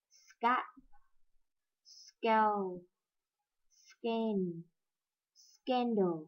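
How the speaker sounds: soft model words with a distinct s before the k; careful sk cluster list; clear sk words. Shown as a demonstration. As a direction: sound the s in every word from "scat" to "score". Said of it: "lấy hơi cái chữ sờ trước".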